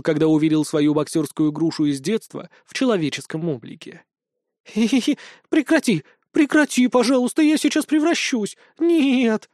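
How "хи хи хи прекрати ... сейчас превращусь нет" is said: high, squealing ticklish pleading; giggling. A narrator's reading. Vesnushka begs Lina to stop tickling, giggling. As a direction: giggle and beg in a much higher voice. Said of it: "продолжала хихикать Веснушка".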